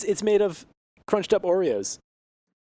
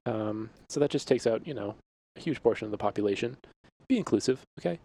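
librarian voice; 3 semitones lower than usual. Acted. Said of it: "What's with this librarian voice here".

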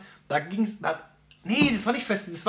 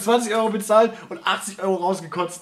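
talking through laughter; laughing; 3 dB louder than usual. Real, not acted. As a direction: laugh as you deliver the punchline. Punchline told while laughing.

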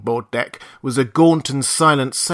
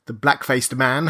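usual speaking voice

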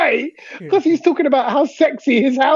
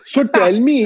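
imitating an Indian accent; lightly mocked Indian-accented speech; put-on Indian accent; slower than usual. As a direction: mimic a friend's Indian accent. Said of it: "did you put on the Indian accent".

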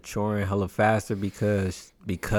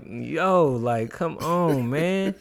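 disgusted protest; 5 semitones higher, much slower than usual. Retold or imitated. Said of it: "I'm like".

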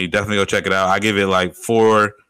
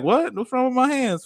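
mock offended; 14 semitones higher than usual. Customer's offended reply.

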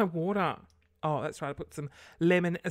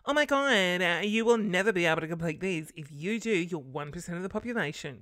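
mocking clickbait post; 4 dB louder than usual. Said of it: "it's like".

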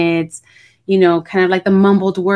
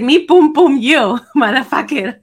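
shouting at trespasser; 6 semitones higher than usual. Retold or imitated. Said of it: "she was like".

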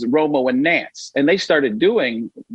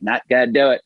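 Dana Carvey's Bush. Retold or imitated. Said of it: "Dana Carvey ... He's like".

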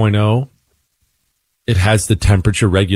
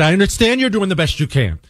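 raised, exasperated pitch, held back in volume; losing it; 11 semitones higher than usual. Retold or imitated. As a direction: snap politely at the agent. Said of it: "This is where I lost it".

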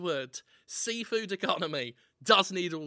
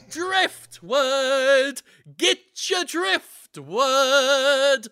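hawker's call; 4 semitones higher, 8 dB louder, much slower than usual. Pretend. Hawking driftwood.

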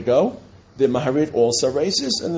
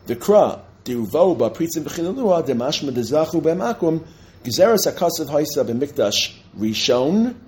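raised, emphatic text recitation; reading source text aloud; 4 semitones higher, 3 dB louder, slower than usual. Acted. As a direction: read the Hebrew source out to the class, pitched up.

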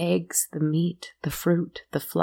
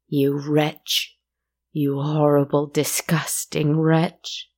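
angry moan; 3 dB louder, slower than usual. Acted. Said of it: "she moaned".

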